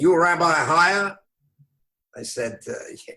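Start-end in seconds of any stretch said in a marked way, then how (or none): 0.0-1.2 extremely rough, gravelly voice. Retelling a phone call from an attorney: Mickey Rudin's rough voice. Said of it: "the roughest voice I ever heard. And the guy says to me exactly like this".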